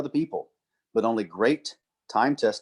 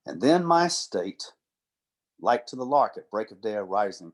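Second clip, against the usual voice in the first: slow, measured sonnet reading; poem recitation; 2 semitones lower than usual. Acted. Lecturer reciting a sonnet to the class as a boyfriend would, slow and heartfelt. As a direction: savour each line like a love poem.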